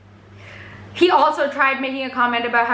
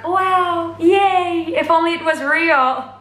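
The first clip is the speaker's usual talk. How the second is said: mock crowd excitement; 5 semitones higher, much slower than usual. Retells crowd's reaction to dream.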